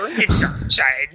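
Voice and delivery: lightly put-on alien master voice; Yoda. Co-host extends the film joke, lightly voiced creature. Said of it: "That's Yoda now".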